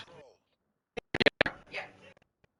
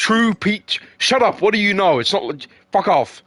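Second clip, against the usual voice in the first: higher, playful mock outrage at a friend; mock telling off; 4 semitones higher than usual. Mocking a friend from Liverpool, playfully outraged. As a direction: tease him like you're fed up.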